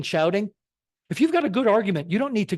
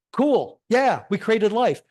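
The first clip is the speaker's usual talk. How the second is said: higher-pitched mock celebration; mock triumph; 5 semitones higher, slower than usual. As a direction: imitate scientists crowing over a supposed breakthrough. Mimics scientists overclaiming their result.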